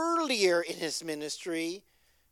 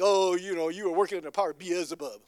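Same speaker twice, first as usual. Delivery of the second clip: accusing Pharisees; 2 semitones lower, 3 dB louder than usual. Retold or imitated. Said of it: "when the Pharisees saying".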